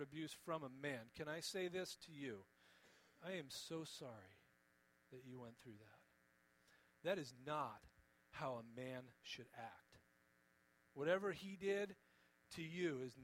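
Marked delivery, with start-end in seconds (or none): 3.3-10.0 soft, tender and sincere; heartfelt apology. Real, not acted. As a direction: say it gently, letting it sink lower. Heartfelt apology to abuse survivors.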